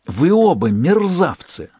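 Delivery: slow, high, indignant scolding; angry outburst. A narrator's reading. Lola scolding both rascals over the phone, outraged. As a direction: spit out the insult slowly in outrage. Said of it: "распирало от желания обругать этих негодяев".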